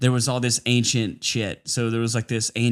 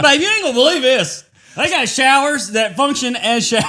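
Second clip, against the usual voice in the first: much higher and louder, hammed-up wonder; mock excitement; 10 semitones higher, 4 dB louder than usual. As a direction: gush to babe about nothing special. Mock excited tourist to partner.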